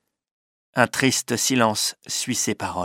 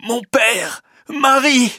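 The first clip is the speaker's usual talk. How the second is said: high, emotional call; young man's cry; 11 semitones higher, 3 dB louder, slower than usual. A narrator's reading. Dying son sees father and Marie, high cry. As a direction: call out to your loved ones. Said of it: "crie le jeune homme".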